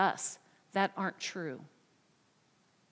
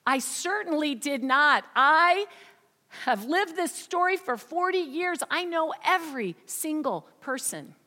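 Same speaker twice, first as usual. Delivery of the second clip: higher, louder, affronted denial; indignant protest; 5 semitones higher, 4 dB louder than usual. Acted. Margaret insisting to her counselor, indignant and louder. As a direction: push back hard, offended at the very idea.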